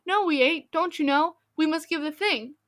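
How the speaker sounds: put-on boy stopping the teacher, calling out eagerly; called out in a hurry. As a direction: blurt it out before the teacher leaves. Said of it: "Tommy called out in a great hurry".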